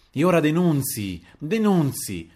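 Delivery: loud, high-pitched challenge; angry yelling. A narrator's reading. Brother shrieking from the next room, angry yelling. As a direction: yell it out as an angry dare. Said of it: "mentre il fratello strillava di là".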